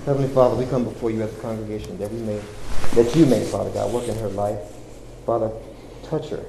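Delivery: earnest spoken prayer, rising and falling; fervent prayer. Acted. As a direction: pray aloud for the congregation. Leads the congregation in prayer.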